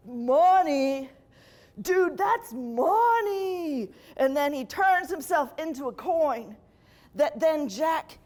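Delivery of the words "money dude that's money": slow, drawn-out dopey dude; dim devil. Retold or imitated. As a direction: gush over it like a stoner. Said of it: "the devil's like".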